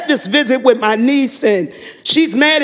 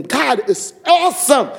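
higher-pitched, impassioned testimony; fervent praise; 4 semitones higher than usual. Real, not acted. Testifying to the group that God is awesome, fervently. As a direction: proclaim it with rising fervor.

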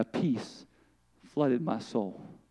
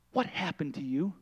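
hushed whisper; 4 semitones lower, 11 dB quieter than usual. Retold or imitated. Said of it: "I whispered".

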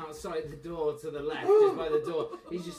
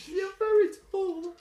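pinched voice; 11 semitones higher, 5 dB louder than usual. Pretend. GM voices crying kid.

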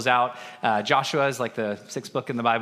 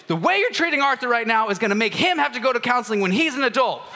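laughing while quoting; 9 semitones higher, 4 dB louder than usual. Retold or imitated. Dad scolding, laughing while retelling.

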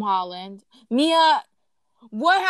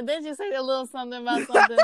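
teasing laugh; much faster than usual. Real, not acted.

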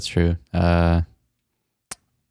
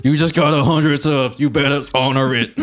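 put-on girlfriend voice; 2 semitones higher than usual. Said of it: "my girlfriend's name is Karen".

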